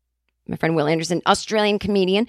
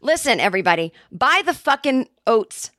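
exasperated pitch; 4 semitones higher than usual. Acted. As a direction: drop the act and just beg them to buy. Frustrated ad read breaks down.

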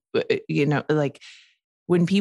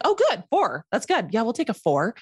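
much higher, falsely cheerful relief; mock relief; 6 semitones higher than usual. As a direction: play naive relief at hearing four. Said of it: "I was like".

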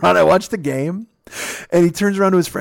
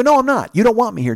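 high-pitched, mildly heated comeback; retold challenge; 8 semitones higher, 4 dB louder than usual. Guest challenges old man who wants him gone, heated. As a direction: push back hard, reenacting an argument.

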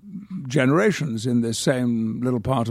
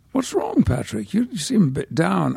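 concerned sub-editor; 6 semitones higher than usual. Retold or imitated. Sub-editor voiced in retold story.

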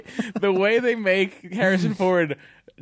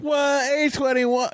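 surprised; 10 semitones higher, slower than usual. Real, not acted. Mock shock at episode number.

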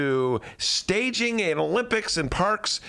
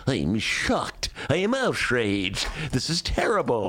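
lightly voiced pundit feigning outrage; Greg Hines impression; 3 semitones lower than usual. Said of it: "That's your Greg Hines impression".

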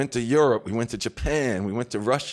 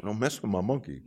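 menacing look voiced; 5 semitones lower, 7 dB quieter than usual. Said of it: "like this, like".

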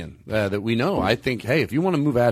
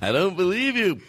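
bad impression of a singer; 4 semitones higher than usual. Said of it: "sounds like a horrible singer".

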